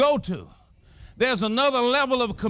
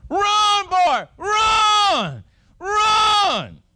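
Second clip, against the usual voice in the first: high, louder shouts of run; shouting run; 12 semitones higher, 4 dB louder, much slower than usual. Retold or imitated. Third base coach screaming at the big runner, high shout.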